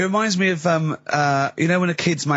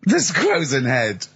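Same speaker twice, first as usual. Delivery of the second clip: drawn-out squozing; much slower than usual. Pretend. Joke word drawn out.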